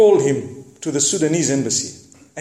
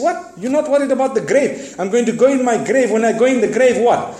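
incredulous outburst; 7 semitones higher than usual. Retold or imitated. Shepherd lectures the men.

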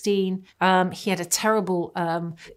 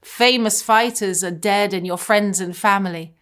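mocking taunt; 3 semitones higher, 6 dB louder than usual. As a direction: jeer at them like the enemy. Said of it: "the enemy was mocking him".

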